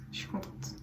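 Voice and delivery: unvoiced whisper of the same words; softly whispered echo; whispered repeat. Real, not acted. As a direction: drop to a breathy whisper.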